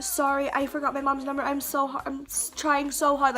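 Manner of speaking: imitating a nervous stammer; scared stuttering. Teen excusing herself to a cop, mildly stuttering. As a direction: trip over words and restart mid-word. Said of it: "I'm stuttering".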